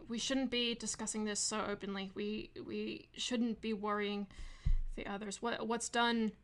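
put-on slipping into a light Australian accent; British attempt that drifts Australian. Game master voicing Arwen urging rest, accent slipping into Australian. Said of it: "I keep slipping into an Australian accent".

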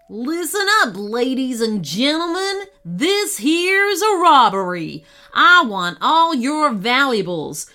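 gruff loud cowboy robber; loud outlaw voice. Acted. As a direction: bark out the robbery demand.

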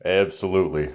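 put-on slipping into a Southern accent; accidental Southern character voice. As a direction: answer with a touch of Southern. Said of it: "outside and became Southern".

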